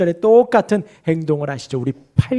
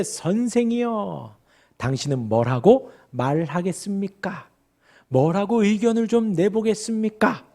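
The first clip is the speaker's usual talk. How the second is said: condescending address; 4 dB quieter than usual. Retold or imitated. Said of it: "지금 예수님을 아주 하대하는 것입니다". (느리게 깔보듯 부르는 말투)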